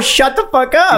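high, slow mocking shout. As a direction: throw it out in disbelief. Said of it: "And I'm like".

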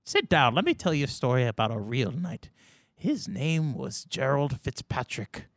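put-on a very old man telling off a youngster; old grandpa voice, then settling into a story; confused old man. Old man mistakes player for knight.

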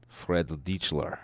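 shaky-on-target German accent, drawn out; attempted German accent. Shown as a demonstration. Co-host testing if a patron's name sounds German, attempted German accent. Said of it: "My German accent is not on point".

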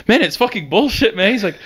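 high, whiny, laughing imitation of a crying friend; mock crying whine. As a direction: whine like a guy in tears who's done. Imitating crying Matt complaining.

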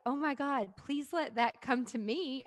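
eager wishing. Retold or imitated. Host voices listeners wanting those orders, eager. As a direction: lightly plead for the windfall.

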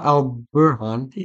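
al-Burhan said slowly, syllable by syllable; careful name pronunciation. Shown as a demonstration. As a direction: sound out al-Burhan with care. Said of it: "Ah, that's not bad".

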